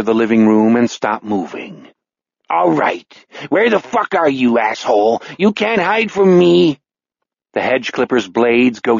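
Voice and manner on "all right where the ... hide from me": raised-pitch hunter's voice; a hint of angry menace; menacing fisherman. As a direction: taunt the man in hiding. Fisherman hunts hidden Henry, cursing.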